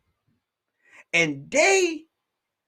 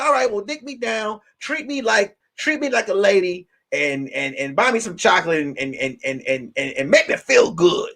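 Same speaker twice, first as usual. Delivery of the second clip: mock woman's request; 5 semitones lower than usual. Comic telling a woman's demand, in a low mock voice. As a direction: play the woman asking, low and coy.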